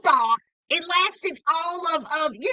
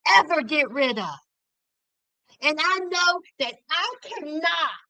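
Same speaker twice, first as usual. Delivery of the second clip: pretend heartfelt apology. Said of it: "looked them right in the eye and says".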